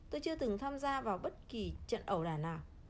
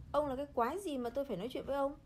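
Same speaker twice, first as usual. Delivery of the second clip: put-on growling drunk; 4 semitones higher, faster than usual. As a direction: snarl it at the old man. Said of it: "gầm lên". (gã say gầm lên giận dữ)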